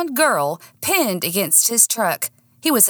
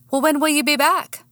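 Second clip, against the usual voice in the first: Daniel voice; 8 semitones higher than usual. Acted.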